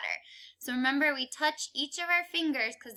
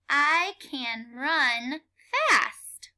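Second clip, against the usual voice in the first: teacher model sentence, slowed; slower than usual. Shown as a demonstration. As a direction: read slowly, land on fast. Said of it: "read the sentence".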